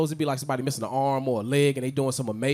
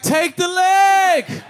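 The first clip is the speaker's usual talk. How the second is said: very slow, high, loud "Take the leg"; slow emphatic inner voice; drawn-out decision; 9 dB louder, much slower than usual. Retold or imitated. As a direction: stretch it out like an easy choice. Black people's answer.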